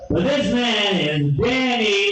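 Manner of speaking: slow announcer build-up; stage introduction. Real, not acted. Host brings Danny to the stage, drawn-out announcer call. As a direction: draw out the comic's name.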